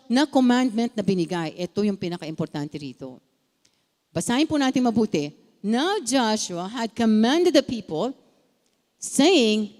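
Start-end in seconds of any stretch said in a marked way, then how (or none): 5.6-9.7 slow, deliberate reading of the command; scripture reading. Acted. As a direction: lay the verses out slowly, word by word.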